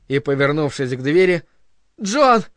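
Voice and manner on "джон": high call of a name. A narrator's reading. Linda summoning John from the door, calling. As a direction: call sharply toward the door, higher. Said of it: "позвала она".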